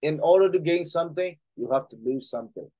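slow, deliberate English reading. Acted. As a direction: read it out slowly for the class. Reads English line slowly.

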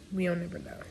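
soft whispered aside. Real, not acted. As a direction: breathe the words out.

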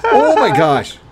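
squeaky chipmunk voice; loud squeaky exclaim; helium voice. Real, not acted. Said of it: "I sound like the little chipmunk".

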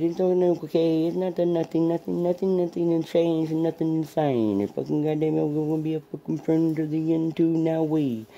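calm the dog down gently; soothing pet voice. Real, not acted.

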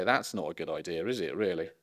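undersell it with a dry tone; ironic understatement. Shown as a demonstration. Showing how to raise the law, with dry irony. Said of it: "you've got to be ironic".

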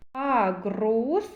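"Агрус" with the р brought out; third sound picked out. Shown as a demonstration. Teacher showing children the third sound, р emphasized in "Агрус". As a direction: lean on the r in "Агрус". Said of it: "Р твердий приголосний".

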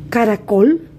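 Caracol, with the stress landing on col; stressed final syllable. Shown as a demonstration. Teacher gives pupils a word to sound out, stressed final syllable. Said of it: "la sílaba que suena más fuerte".

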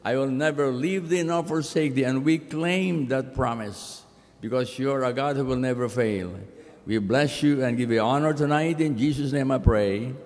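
solemn pastoral prayer. Acted. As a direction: pray aloud for the congregation. Pastor leads opening prayer.

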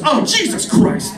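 high, slow, breathy gasp of disbelief; shocked woman. Retold or imitated. Woman insulted up close at open mic, high shocked gasp. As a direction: drag it out in horror. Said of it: "And then she goes".

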